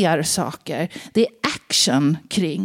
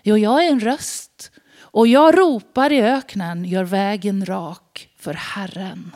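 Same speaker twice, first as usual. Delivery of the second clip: emphatic prophet reply. Acted. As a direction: press the words jag är en röst hard. John restates his answer. (eftertryckligt, bestämt svar)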